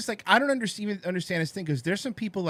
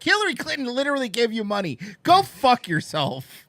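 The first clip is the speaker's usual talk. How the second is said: angry retort; 6 semitones higher, 6 dB louder than usual. Retold or imitated. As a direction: tell them off, biting down on go fuck yourself. Retorting to Young Turks.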